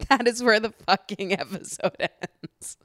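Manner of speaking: slow, emphatic, breaking into laughter; laughing disbelief. Real, not acted. Podcaster repeating how the episode ends, laughing in disbelief. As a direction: stretch it out and laugh through the end.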